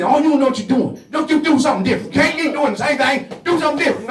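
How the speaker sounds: a hint of a complaining wife; mocking woman. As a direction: mimic a woman scolding her man. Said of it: "You say".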